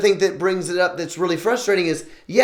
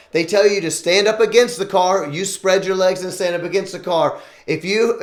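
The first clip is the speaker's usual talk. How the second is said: Dad's stern Southern talking-to, lightly put on; Southern accent; 2 semitones higher than usual. Dad warning his teenage son about police, mild Southern accent. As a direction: imitate your father laying down the law, lightly Southern. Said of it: "put on my Southern accent".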